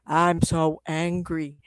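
slow, dragged-out growling monster. Pretend. Hidden monster face of an angry person, slow and drawn. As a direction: drag it out like a lurking beast.

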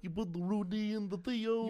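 Bill Cosby impression. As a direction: mumble it like Cosby, laughing. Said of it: "Bill Cosby impression".

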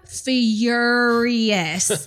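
"furious" stretched out very slowly; drawn-out emphasis. Real, not acted. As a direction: draw out every syllable of "furious". Drawn-out emphasis on her anger.

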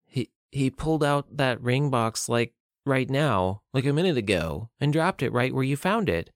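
halting, nervous explanation; shaky. Acted. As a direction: stammer a little, mildly frightened. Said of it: "Madison spoke shakily".

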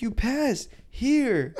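imitating the proctor; slow hippie drawl. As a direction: stretch it out like a chill hippie. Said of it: "real cool hippie kinda guy".

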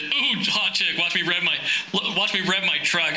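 hammed-up revving macho guy; lightly voiced braggart building to a boast; mock show-off truck guy. Truck guy trying to impress a hot chick, mock macho. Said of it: "is that bull-, what is it, that bullshit".

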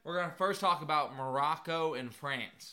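a lightly done, bad Southern American accent. Co-host mocking soccer fans in a weak Southern accent. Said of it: "we're gonna do it in a southern accent".

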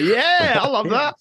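squeaky, naive delight; high gullible voice. Retold or imitated. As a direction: play an eager fool falsetto. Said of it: "Everyone was like".

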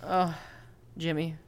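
shy dwarf Jimmy talking to Nomo; timid dwarf Jimmy. Acted.

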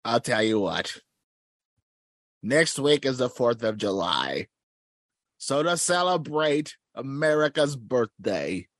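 lightly voiced villain granting a favor; measured proclamation in a mild villain voice; Skeletor. Skeletor agreeing to return Will, lightly voiced villain. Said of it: "Skeletor, now do you want".

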